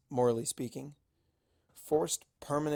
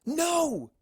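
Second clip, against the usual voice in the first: much higher, louder alarmed no; group shout; 8 dB louder than usual. Acted. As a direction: cry out to stop her. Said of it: "Shout all five of my friends".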